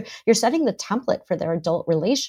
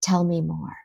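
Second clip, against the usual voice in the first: softer, calm tell me more; gentle invitation; 5 dB quieter than usual. Shown as a demonstration. Parent inviting a worried child to talk, gently. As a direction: open the door quietly and kindly. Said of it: "just use these three words and say".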